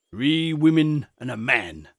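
put-on grave old shepherd; understated rustic gravity. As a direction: state it solemnly, evenly, falling at the end. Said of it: "said the shepherd gravely".

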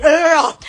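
loud groan of shock. Shown as a demonstration. Streamer showing how shocked they always are, shocked groan. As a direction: let out a loud, startled "ugh". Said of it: "I'm always shocked".

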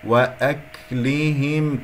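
وأكلهم slow, with a brief breath on the ك; light hams. Shown as a demonstration. Teacher modelling the correct reading, light hams. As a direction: recite وأكلهم slowly, ك lightly released. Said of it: "كاف مهموسة".

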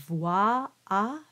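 "voir" with a very open a. Shown as a demonstration. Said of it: "very open".

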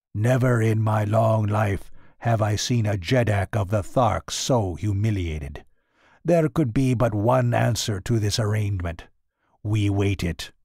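cold, hard voice. Acted. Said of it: "in a cold, hard voice".

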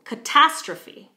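"catastrophe" with "tas" high, loud and drawn out; slow it, punch "tas" in "catastrophe"; stress on second syllable. Shown as a demonstration. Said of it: "stress on the second syllable".

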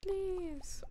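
high, soft little plea; cutesy pleading. Pretend. Player begs friend over items, cutesy pleading.

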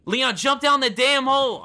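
high, slow, exasperated shouting; frustrated yell. Real, not acted. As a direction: bark it at a dumb character. Yelling commands at Leon.

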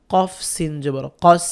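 "কফ" and "কস" with a firm, hard q; strong Arabic qaf in "কস". Shown as a demonstration. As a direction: spell "কফ সিন জবর কস" slowly, hitting the q hard. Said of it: "শক্ত করে উচ্চারণ করবেন".

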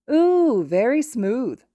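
high, loud, slow mocking "ooh"; teasing creature. A narrator's reading. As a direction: coo it out like a teasing shadow. Shadow creature teases the flirt.

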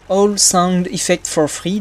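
slow, self-mocking English accent on the name; French speaker's clumsy English accent. Shown as a demonstration. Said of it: "désolé pour l'accent anglais, minable".

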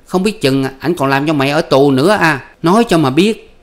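high, loud bickering voices; husband and wife arguing at night, high and loud; heated quarrel. Acted. Voiced marital quarrel continues.

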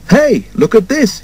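high-pitched call for attention; lightly acted calling out; mild acted shout. A narrator's reading. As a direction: call someone over to look, without much volume. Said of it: "he shouted".

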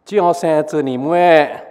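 Singlish Hokkien grumble; Hokkien exclamation. Acted. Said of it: "Brain two".

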